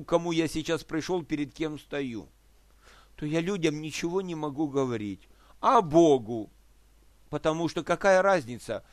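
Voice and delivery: normal talking voice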